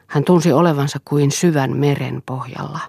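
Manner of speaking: plain reading voice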